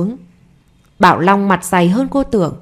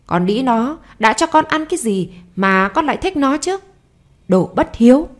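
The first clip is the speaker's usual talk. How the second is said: raised, furious scolding; scolding mother; 3 semitones higher than usual. Acted. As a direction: berate the boy without pause. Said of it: "miệng không ngừng quát mắng".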